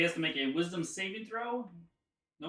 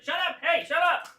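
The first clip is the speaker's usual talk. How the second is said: high, loud squawk of annoyance; shrieky little boss shouting them down; scolding creature leader; 9 dB louder than usual. Acted. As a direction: silence your underlings in a high monster voice. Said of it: "and he's like".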